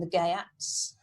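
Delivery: "Geats" in two syllables, GAY-ats; pronunciation of Geats. Shown as a demonstration. Teacher reads the bracketed pronunciation to pupils, GAY-ats. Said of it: "that's how you pronounce it".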